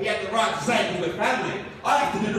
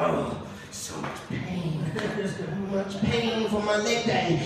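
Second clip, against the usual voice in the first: put-on girls relishing pain; 4 dB quieter, much slower than usual. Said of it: "They're like".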